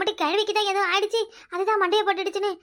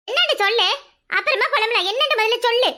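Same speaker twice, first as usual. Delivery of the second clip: higher, louder urging; impatient demand; 5 semitones higher, 4 dB louder than usual. Acted. Friend telling lamenting woman to explain first, impatient. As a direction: press her insistently to get it out.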